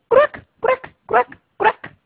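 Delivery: croar muy agudo y fuerte, muerto de risa; croar de rana risueña. Acted. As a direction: croa como una ranita que se ríe. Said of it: "una ranita muerta de risa". (la ranita se burla del cachorrito, croar agudo)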